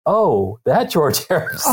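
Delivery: retold dawning recognition, stress on the name; belated realisation. Storyteller answering his wife, comic sudden realisation. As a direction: play the penny dropping, with a laugh.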